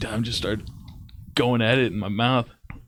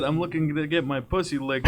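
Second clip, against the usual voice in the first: mock sultry read; 3 semitones higher than usual. Reading a sexy text aloud.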